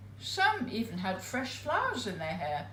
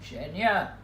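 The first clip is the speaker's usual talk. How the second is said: put-on name said with a German accent; a hint of a German accent on Genia; 4 semitones lower, 3 dB louder than usual. Willy greeting Genia, a light German accent. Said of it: "heavy, guttural German accent".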